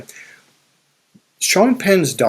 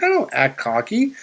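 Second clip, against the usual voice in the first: high, slightly indignant denial; higher, mock-offended retort; defensive protest; 7 semitones higher, 4 dB quieter than usual. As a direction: push back, a bit offended. Retold protest to goddaughter.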